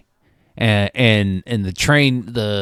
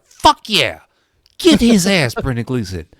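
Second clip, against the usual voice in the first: cheering. Retold or imitated. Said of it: "I'm like".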